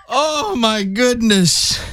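slow and high, still laughing. Real, not acted. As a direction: gasp it out, cracking up. Recovering from laughter.

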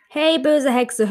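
high, slow angry call; angry shout. Acted. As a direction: stretch out böse in a scolding cry. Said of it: "guckte böse und rief".

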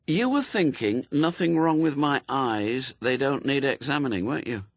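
high-pitched woman catching him out; Anathema, knowing. Acted.

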